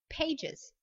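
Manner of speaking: "pages" as two syllables, pay-djiz; extra syllable. Shown as a demonstration. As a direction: sound the plural ending of "pages" as iz. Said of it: "une extra syllabe". (« pages » avec une syllabe finale en iz)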